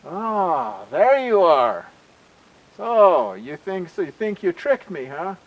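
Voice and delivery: acted gotcha with rising swagger; triumphant realization. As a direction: catch the trickster out. Skunk spots the real Cougar above.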